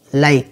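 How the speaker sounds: Lake with an "ay" vowel; long A sound. Shown as a demonstration. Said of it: "âm A".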